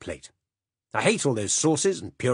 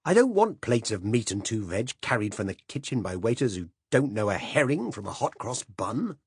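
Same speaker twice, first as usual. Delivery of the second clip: louder, higher blustering tirade; passionate rant; 4 semitones higher, 4 dB louder than usual. Acted. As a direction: hold forth like an outraged old gourmand. Silas's passionate address on food.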